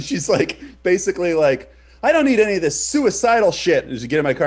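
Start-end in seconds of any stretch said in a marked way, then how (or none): 2.0-3.8 high, loud, rattled protest; pitched-up, panicked objection; retold terrified driver. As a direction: act out someone alarmed and fed up. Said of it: "she gets terrified".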